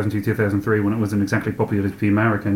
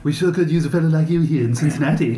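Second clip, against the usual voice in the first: higher mock Southern accent; 6 semitones higher than usual. Joking about the friend's Cincinnati roots, mock Southern accent. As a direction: put on a folksy, not-quite-Southern Cincinnati accent. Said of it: "not quite Southern accent".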